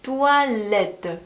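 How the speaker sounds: "뚜알레트" slow and joined in one glide; linked toilettes. Shown as a demonstration. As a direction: link the syllables of "뚜알레트" smoothly. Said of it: "이렇게 이어서 발음하시면 됩니다". ("뚜알레트" 이어서 부드럽게)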